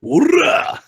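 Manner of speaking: high, loud hoorah; whooping war cry. Acted. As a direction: let out a sudden high battle yell. Cheers a high dice roll.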